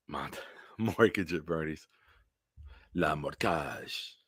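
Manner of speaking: soft laughing whisper of the pun; whispered joke. Real, not acted. Muttering his own pun to the stream, whispered and slow. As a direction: whisper the pun with a chuckle, slowing at the end.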